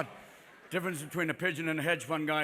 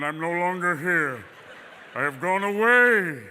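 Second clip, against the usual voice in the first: mock farewell; 5 dB louder than usual. Dick leaving, mock farewell.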